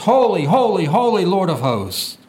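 each "Holy" stressed with a falling swell; emphatic repetition. Shown as a demonstration. Preacher echoing the angels' praise, emphatic "holy". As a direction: hit every "holy" like a wave. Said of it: "it could be this for emphasis".

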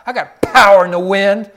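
God proclaiming his power to Elijah, loud and rising; voice of God, building. Acted. Preacher voicing God, building loud.

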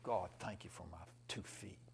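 hushed, whispered prayer of gratitude; whispered thanks. Retold or imitated. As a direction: breathe it like a humbled man. Grateful man's quiet prayer.

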